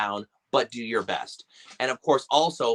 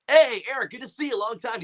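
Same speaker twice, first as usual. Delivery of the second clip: confident greeting; 9 semitones higher than usual. Retold or imitated.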